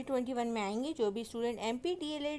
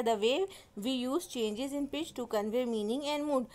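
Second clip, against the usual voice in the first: very slow, deliberate definition reading; slow dictation; much slower than usual. Shown as a demonstration. Teacher dictating the definition to students slowly. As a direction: read it out like dictation to a class.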